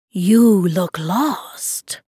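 very slow cat voice; big lynx. A narrator's reading. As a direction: stretch each word out like an unhurried big cat.

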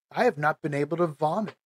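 fast, just getting it out; blurted out. Real, not acted. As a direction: rush through the awkward confession. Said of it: "so I'll just say it".

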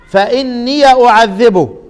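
فإني أعذبه recited slowly, ya of إني opened; Quranic recitation. Shown as a demonstration. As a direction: chant it slowly with an open ya. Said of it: "زي ما أنا قرأت كده". (تلاوة فإني أعذبه بفتح الياء)

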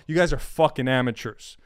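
ordinary delivery

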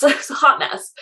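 amused, after a laugh. Real, not acted. Self-deprecating laugh.

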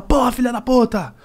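high, slow mock outburst; mock curse. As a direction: blurt out an insult, hammed up. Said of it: "Você quer falar". (xingamento imitado, agudo)

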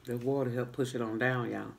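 speaking between bites; talking while chewing. Real, not acted. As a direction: mouth full of food. Seen 0: eating bread while talking, hand at mouth.

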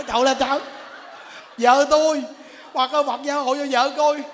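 mock panicked husband. Frightened husband pleading.

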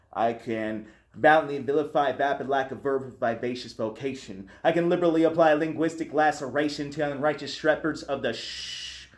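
rhythmic spoken-word delivery, building then trailing off; spoken word demo. Shown as a demonstration. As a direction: perform the alliteration like a slam poem. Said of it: "my best example of that is".

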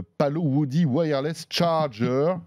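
put-on slow, careful English accent on the brand name Palo Woody Wireless Charger. Host introducing the next product, in a mock English accent. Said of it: "Vous avez remarqué mon accent anglais".

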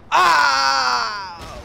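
loud drawn-out scream; excited cry. Real, not acted. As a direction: cry out loudly and hold it. Spots the wolves.

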